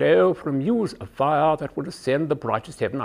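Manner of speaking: RP recital with fingers pressed behind the eye teeth; a touch garbled British RP through fingers; British RP with fingers in mouth. Shown as a demonstration. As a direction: say "muse of fire" through propped-open teeth, British RP. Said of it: "press your fingers in just behind the eye teeth".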